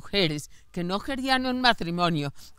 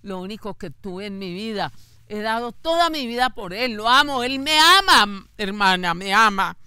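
begging, building into a cry; a mother pleading, rising to tears; retold crying plea; 5 dB louder than usual. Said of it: "lloraba diciéndome".

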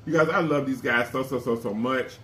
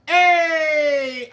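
hype shout; 12 semitones higher, 5 dB louder than usual. Pretend. Hype shout between chants.

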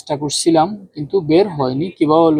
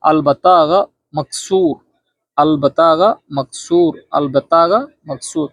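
slow drilled repetition; slower than usual. Shown as a demonstration. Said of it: "তাহলে আমরা বাক্যগুলো আবার বলি".

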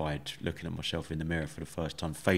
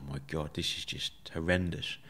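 soft, horrified thought to himself; under his breath, dismayed; quiet inner thought; 6 dB quieter than usual. Retold or imitated. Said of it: "I just thought".

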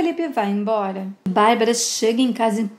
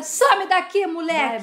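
shout; 5 semitones higher than usual. Acted. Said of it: "E Bárbara grita".

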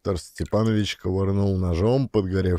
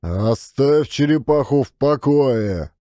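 irritated order; 4 semitones higher than usual. Acted. Father cuts off his son.

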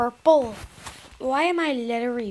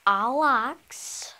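whispering while hiding. Real, not acted. Hiding, puzzled.

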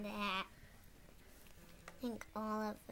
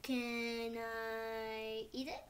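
slow drawn question; much slower than usual. Real, not acted. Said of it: "You already said that".

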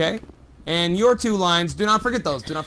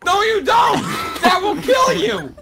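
alarmed shout; 12 semitones higher than usual. Acted. Host yelling at a friend about to eat concrete, panicked high shout. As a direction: shout him away from the danger.

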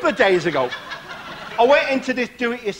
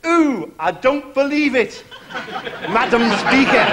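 slowed, a hint of a grumpy old man in disbelief; Victor Meldrew impression; 3 semitones higher, slower than usual. Warm-up man mimics Victor Meldrew for the crowd, slow disbelief. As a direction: drag out the disbelief like a grumpy pensioner. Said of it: "how about that Victor Meldrew?".

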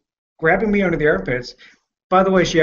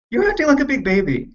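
1 mocking taunt; 10 semitones higher than usual. Retold taunt to girlfriend.

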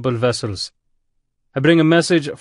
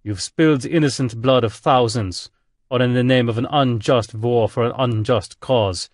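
German admiral booming, louder; 2 semitones higher, 3 dB louder than usual. Acted. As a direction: boom it over the speakers, reproachful. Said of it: "voice boomed over the speakers".

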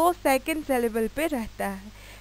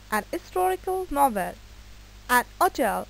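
slow dictation; much slower than usual. Shown as a demonstration. Dictates examples of an.

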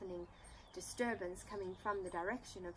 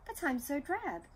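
moaning; 6 semitones higher, 6 dB louder than usual. Acted. Dinarella moans to the fairy.

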